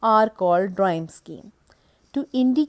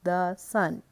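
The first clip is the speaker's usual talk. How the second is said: slow recited verse line; slower than usual. Shown as a demonstration. Lecturer reciting a Shakespeare line as an example, slow and measured. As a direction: read out slowly with each beat even, as an example of iambic pentameter.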